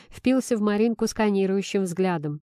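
usual speaking voice

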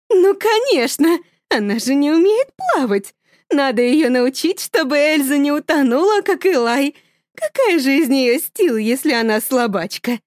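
high, loud, manic confidence; mother insisting, sure of herself; confident tone. Acted. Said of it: "произносит уверенным тоном". (высоко, громко, уверенно)

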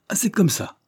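high-pitched indignant outburst; indignant cry. A narrator's reading. Boss rearing up at his rebellious men, indignant cry. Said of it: "cria Pied-de-Bœuf en se dressant".

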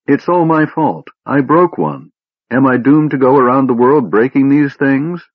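high-pitched distraught wail, acted. A narrator's reading. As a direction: wail it out in guilty despair. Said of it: "Tass wailed incoherently".

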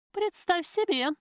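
hoch und laut mit Pathos; pathetisch. Acted. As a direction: theatralisch ausrufen. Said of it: "с пафосом сказала Любка".

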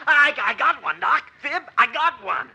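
high, loud cry of delight; thrilled shout. Acted. Herb shooting his first duck, thrilled high shout. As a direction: shout it like a kid's first win.

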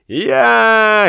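high braying "Я"; boy brays like a donkey. A narrator's reading. Boy joins the braying, mocking. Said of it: "ревел мальчуган".

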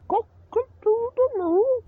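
squeaky high cartoon rooster crowing; very high, loud rooster impression. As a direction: crow it out like a big rooster greeting someone. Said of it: "Big-ass fucking rooster".

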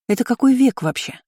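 lightly mock the outdated threat; chuckled disbelief. A narrator's reading. Girl ridiculing an old-fashioned punishment, chuckled disbelief. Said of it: "хохотнула я".

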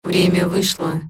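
a machine announcing the end; metallic robot voice. A narrator's reading. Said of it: "Металлический голос резанул по ушам".

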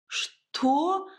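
high, startled gasp of a question; shocked gasp. A narrator's reading. Heroine hears a marriage proposal, high shocked gasp. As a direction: blurt it out in shock, pitched high. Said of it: "ахнула я".

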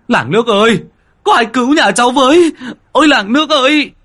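high, loud desperate cry to the village; panicked husband crying out to the neighbours; shouting for help. Acted. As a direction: yell out into the night for help. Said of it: "nghe tiếng anh Tín hô hoán".

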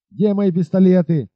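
captain commanding his men, urgent. Acted. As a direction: order the soldiers sharply. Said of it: "скомандовал он солдатам".

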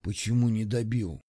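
low, soft breathy question; the wounded saboteur asks on a spent breath; weak exhale. Acted. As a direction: breathe it out, too weak to speak. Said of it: "выдохнул он".

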